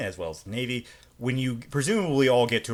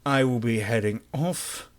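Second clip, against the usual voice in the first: interrogator's voice; slower than usual. Acted. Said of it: "I'm talking in the interrogator's voice".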